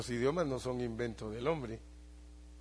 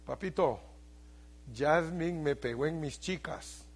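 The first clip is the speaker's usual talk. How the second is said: grandson's voice; 3 semitones higher than usual. Retold or imitated. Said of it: "Me dice".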